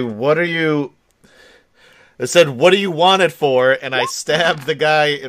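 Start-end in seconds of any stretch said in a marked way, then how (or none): 0.0-3.7 louder, higher, pointed question; suspicious demand. Acted. Player character challenging the man who wants the knife, loud and suspicious. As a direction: challenge him hard on why.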